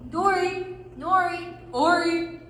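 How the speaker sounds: loud, lifted name roll call. Acted. Dwarves present themselves to hobbit, loud. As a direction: call each name out proudly.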